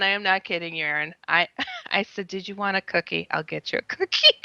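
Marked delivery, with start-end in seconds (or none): 2.3-4.3 coaxing. Retold or imitated. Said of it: "to calm him down".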